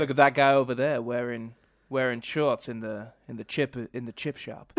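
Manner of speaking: stagey Southern American accent; irritatingly theatrical American accent; bad American accent. Shown as a demonstration. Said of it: "in a bad American accent".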